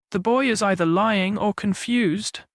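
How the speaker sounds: firm, indignant denial; firm declaration. Acted. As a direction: state it firmly, offended. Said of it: "she declared firmly".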